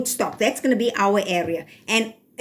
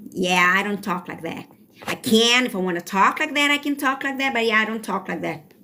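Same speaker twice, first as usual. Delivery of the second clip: put-on American accent. Shown as a demonstration. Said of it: "I don't speak U S".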